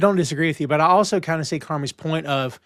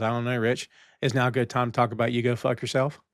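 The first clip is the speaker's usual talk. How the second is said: a softer, lower, unbothered retort; imitating calm delivery; 6 semitones lower, 7 dB quieter than usual. Jimmy calmly brushing off Richie in a mock-even tone. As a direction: keep it cool and quiet while landing the insult. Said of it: "Like, so calm".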